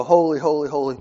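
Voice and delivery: a congregation's bold proclamation; proclaimed holy. Shown as a demonstration. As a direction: call it out together as if to shake the floor. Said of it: "we stand here and go".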